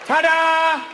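big high showman's flourish, belted out. Acted. Comic showing off the punchline, big flourish. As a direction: present it like a magic trick.

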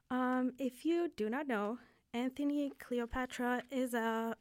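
nervous, shaky voice. Real, not acted. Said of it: "I'm sorry if my voice is shaky".

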